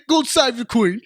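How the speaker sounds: loud, high Cockney shout; Cockney accent. Acted. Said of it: "we do a solid Cockney accent".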